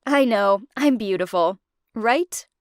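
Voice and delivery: playful mock vanity; joking. The speaker teasing Naomi on the sofa, playful mock vanity. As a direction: tease her lightly. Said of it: "one time I joked".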